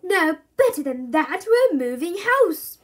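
thrilled dad. A narrator's reading. Dad reveals the move to the family, thrilled. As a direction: announce it like grand news. Dad announcing exciting news.

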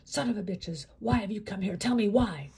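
hushed curse swelling to a loud demand; stream of invectives. A narrator's reading. Inmate cursing the new arrivals, hushed then loud. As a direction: start hissed, end yelling. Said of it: "unleashing a stream of invectives".

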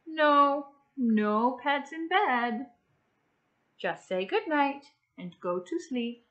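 lightly voiced mother refusing; mild stern parent at bedtime; mom saying no.

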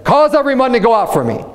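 high-pitched calling out, not shouted; crying out. Acted. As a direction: cry it out like a command for all to hear. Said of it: "he's using a loud voice".

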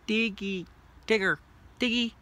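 high loud name call; calling a pet. Real, not acted.

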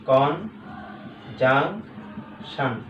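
"কনজাংশন" very slow, as কন, জাং, শান; long gaps between the three syllables of "কনজাংশন". Shown as a demonstration. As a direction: break "কনজাংশন" into three separate beats. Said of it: "তাহলে কন একটা".

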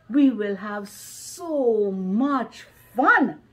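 slow, drawn-out "so much fun"; eager anticipation. Acted. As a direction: savour every word with eager emphasis. Child looks forward to playing.

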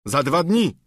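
a squire's startled exclamation; exclaiming. Acted. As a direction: squire reacting to knight, dismayed. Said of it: "zawołał Sancho".

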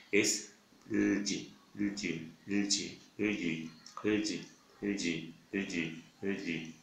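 lgi repeated softly, tongue on the palate; quietly drilling the gli sound. Shown as a demonstration. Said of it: "pronunciando la G L I". (lgi repetido, suave)

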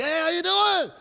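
high, bright mock-cheery hello; cheery greeting. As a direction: greet him big and friendly. Greeting a man he thinks he knows.

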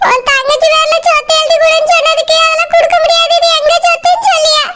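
tearful, wavering complaint; crying. Acted. Mother complaining to her son about his wife, crying. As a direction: complain through tears. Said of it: "ஏம்மா அழுதுட்டு இருக்கீங்க?".

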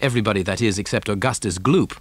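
ordinary delivery

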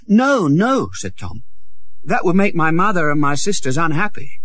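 high, quick pleading; a boy begging the prince to spare his father; anxious Tom. Acted. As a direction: stop him gently but urgently. Tom's voice.

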